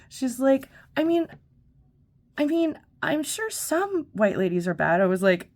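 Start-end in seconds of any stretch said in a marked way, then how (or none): 1.0-5.0 high, prissy grudging concession; hammed-up grudging lady; mocking the lady. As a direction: pitch way up like a reluctant rich lady.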